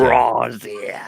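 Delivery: Crosshair said the New Zealand way, "Crossheh"; heavy New Zealand accent. Shown as a demonstration. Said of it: "with a heavy New Zealand accent".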